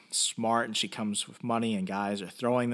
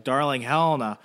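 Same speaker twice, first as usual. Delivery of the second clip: imitated glad greeting, louder and a little higher; Guido Bertinelli relieved; 4 semitones higher, 5 dB louder than usual. Father runs to his rescued daughter, mock relieved welcome. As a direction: call a lost child over, lightly acted. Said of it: "The father's just happy she's there".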